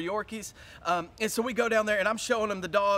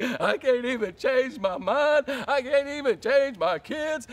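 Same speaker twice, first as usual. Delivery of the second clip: Tuesday despair; slower than usual. Retold or imitated. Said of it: "I'm like".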